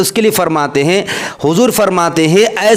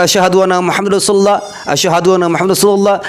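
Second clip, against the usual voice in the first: azan recital; faster than usual. Shown as a demonstration. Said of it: "जिस तरह कह रहे हैं".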